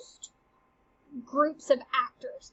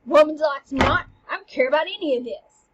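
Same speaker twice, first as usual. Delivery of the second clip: mock sulk with louder bursts; pouting; 5 dB louder than usual. Teacher playing Hamlet before the actors arrive, pouting. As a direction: pout it out, dismissing everyone. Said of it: "like, all pouting".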